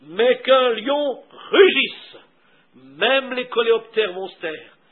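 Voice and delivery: slow, drawn-out stress on the lion's roar; emphatic preaching. Acted. Preacher telling how the lion silences the jungle, emphatic. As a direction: preach it in weighty, spaced phrases.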